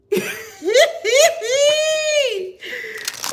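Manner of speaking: loud, high shrieking laugh; real cackle. Real, not acted. Reader cracking up at the fuckery, cackling loudly. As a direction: burst out in a long, piercing cackle.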